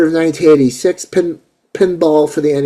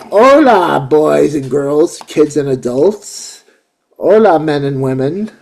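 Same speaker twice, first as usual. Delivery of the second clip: jolly Mexican Santa; 3 dB louder than usual. Pretend. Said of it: "I'll be like".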